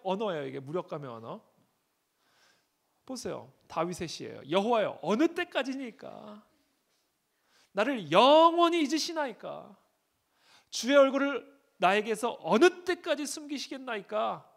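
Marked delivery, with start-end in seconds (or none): 4.5-14.5 slow, loud, high lament to God; a preacher voicing David's desperate plea; anguished psalm reading. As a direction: cry the psalm out like David in pain.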